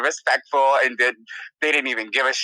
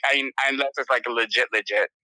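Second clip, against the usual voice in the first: ordinary talk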